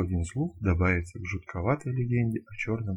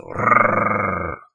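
beast growl; 8 dB louder than usual. Acted. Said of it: "рык такой из леса".

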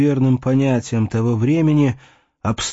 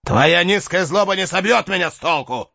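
defiant retort; 9 semitones higher than usual. Acted. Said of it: "возразил".

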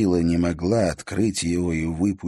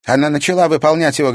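contemptuous; 7 semitones higher, 6 dB louder, faster than usual. A narrator's reading. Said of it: "презрительно усмехнулась Саяна".

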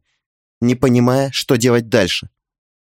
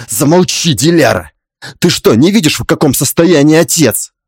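understated angry rebuke; mild angry cry; 2 semitones higher, 3 dB louder than usual. Acted. Husband silencing wife beside his father, mildly angry. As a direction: scold with a slightly raised voice. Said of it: "Вскричал муж".

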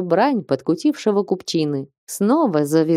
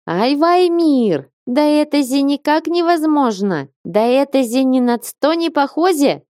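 bang the wall and wail in complaint; sharp guttural voice; 8 semitones higher than usual. A narrator's reading. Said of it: "Резким гортанным голосом".

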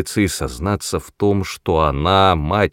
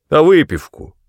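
put-on gloating old woman; 9 semitones higher, 7 dB louder than usual. Grandmother jeers at the table.

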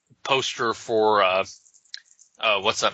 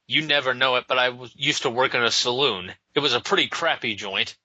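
put-on Irish accent. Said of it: "Frank Miller's idea of Irish people".

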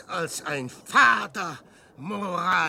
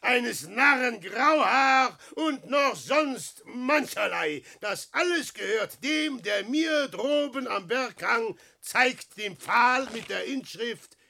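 bitter mocking showman; 3 semitones higher, 3 dB louder than usual. Peer verhöhnt sich selbst.

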